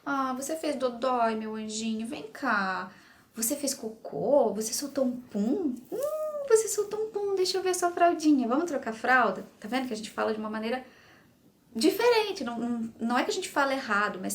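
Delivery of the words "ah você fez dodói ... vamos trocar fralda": sweet parent voice, pitch rising on the pum; motherly baby talk. Shown as a demonstration. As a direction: talk like a parent changing a diaper. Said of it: "com jeitinho de mãe, com jeitinho de pai".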